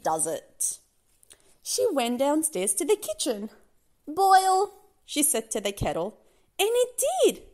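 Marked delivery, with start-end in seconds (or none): 4.1-4.7 high, loud one-word order; magic command. Acted. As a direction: command the kettle to obey.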